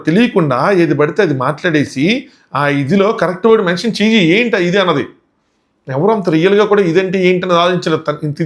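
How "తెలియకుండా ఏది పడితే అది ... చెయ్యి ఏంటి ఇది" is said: slow. Retold or imitated. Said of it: "Raju slow చెప్తున్నాడు".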